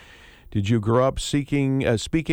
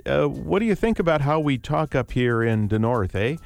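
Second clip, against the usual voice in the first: mock Upper Midwest accent. Shown as a demonstration. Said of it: "the stereotype, which I just illustrated".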